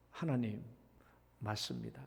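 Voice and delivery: low, hushed inward confession; 속으로 하는 고백. Acted. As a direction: murmur it low, as a private prayer. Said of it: "이 백성들이 뭘 속으로 고백했겠어요". (낮고 조용한 속마음의 고백)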